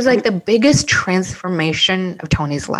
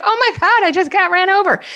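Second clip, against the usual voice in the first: high giddy disbelief, half laughing; lightly voiced amused man; imitating a laughing ghost; 10 semitones higher, much faster than usual. Ghost marvelling at being run over, high giddy mock laugh. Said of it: "He's just laughing".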